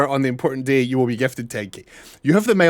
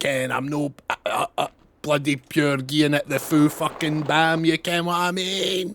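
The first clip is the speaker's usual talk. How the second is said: put-on, over-the-top, exaggerated, heavy Scottish accent; 2 semitones higher, 3 dB quieter than usual. Mocking how other Scots expect to sound: exaggerated strong Scottish accent. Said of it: "That's how Scottish people sound".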